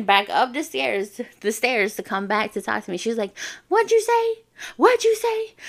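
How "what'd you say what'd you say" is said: very high, loud mock challenge; sharply pitched-up, confrontational quote; retold angry demand. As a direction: act out a bully demanding a repeat. Bully runs back to confront.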